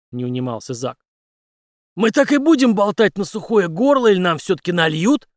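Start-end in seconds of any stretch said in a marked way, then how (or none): 1.9-5.3 higher, louder wry jab; Henry needles Zack; Henry smirking. Acted. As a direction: tease him for a drink. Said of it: "усмехнулся Генри".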